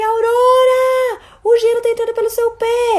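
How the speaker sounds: playful calling. Retold or imitated. Mother calling playfully to toddler in the rain, high and loud. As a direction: call out to her like it's a game.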